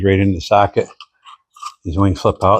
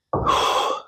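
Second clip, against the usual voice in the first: effort grunt; 5 dB quieter than usual. Real, not acted. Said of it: "Sorry about all the grunting and groaning".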